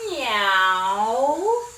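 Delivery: drawn-out meow rising at the end; playful cat meow. Shown as a demonstration. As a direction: mew like a kitten for the kids.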